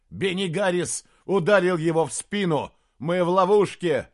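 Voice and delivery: loud, high outraged shout; shouted accusation. Acted. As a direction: shout the betrayal. Knight continues shouting betrayal. (Диарнот кричит принцу об измене)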